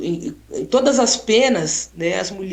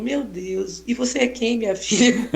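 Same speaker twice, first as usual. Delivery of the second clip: put-on calm old lady; 2 semitones higher than usual. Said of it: "E ela é toda calma".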